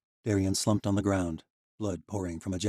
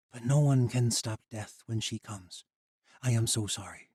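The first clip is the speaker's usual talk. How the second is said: tearful regret; 5 semitones higher, 4 dB louder than usual. Acted. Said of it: "Tears filled her eyes".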